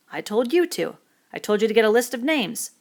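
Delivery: stepping forward to blame him; Ralph rebuking. Acted. Ralph blaming Piggy for the missing list, firm.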